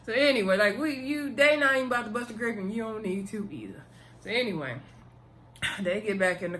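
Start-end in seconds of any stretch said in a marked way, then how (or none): 0.1-3.8 amused aside. Real, not acted. Telling viewers Christian won't fight: amused, quick aside. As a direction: rush the aside out through the leftover laugh.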